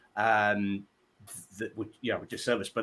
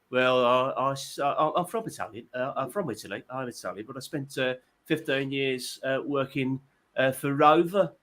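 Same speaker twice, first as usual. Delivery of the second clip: lightly imitated Brummie barman. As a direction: answer haltingly in a mild mock Brummie accent. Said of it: "became Brummie while he was talking to".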